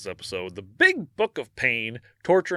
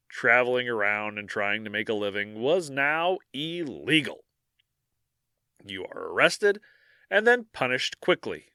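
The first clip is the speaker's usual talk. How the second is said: lightly dramatic second-person storytelling; story narration; 3 semitones higher than usual. Acted. Host narrating a grim scene to Dan, lightly dramatic. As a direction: set the scene like a dark tale.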